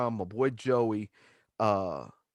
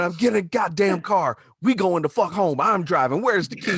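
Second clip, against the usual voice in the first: retold yelling; 4 semitones higher, 3 dB louder than usual. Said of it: "I'm yelling at everyone".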